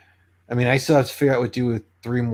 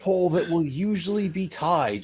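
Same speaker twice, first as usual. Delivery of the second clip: announcer voice; 3 semitones higher than usual. Pretend. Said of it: "I'm having fun with my announcer voice".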